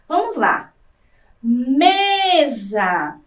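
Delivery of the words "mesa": "Mesa" with a long stretched ME; as if calling out. Shown as a demonstration. Teacher testing for the tonic syllable, ME of "mesa" held long. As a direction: call "mesa" out slowly, dwelling on the first syllable. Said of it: "Imagine que você está gritando a palavra".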